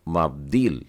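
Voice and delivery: मब्दील with the v reduced to a half sound, mab-DEEL; मब्दील said as mabdeel, falling. Shown as a demonstration. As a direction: clip the v in मब्दील. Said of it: "तो ये हो गया".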